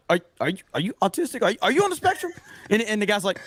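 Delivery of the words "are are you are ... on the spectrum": high mocking question, laughing at the end; half-laughing impression of a blunt question; imitating Ripa. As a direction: ask it high and innocent. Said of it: "He goes, uh".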